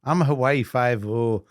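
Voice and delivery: unconvincing attempt at a Scottish accent; bad Scottish accent. English host auditioning for a Scottish guest, shaky Scottish accent. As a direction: put on a clumsy Scottish accent. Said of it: "say something in Scottish".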